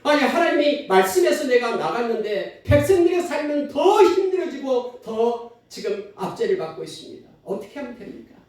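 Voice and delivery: high-pitched, protesting plea to God; pleading prayer. Acted. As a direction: act out a distressed complaint in prayer, swelling then dropping away. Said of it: "하나님 앞에 엎드려 기도하기 시작하잖아요".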